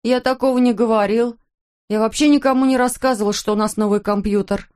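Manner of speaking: put-on a terrified boy protesting his innocence; frightened son protesting to his father; frightened denial.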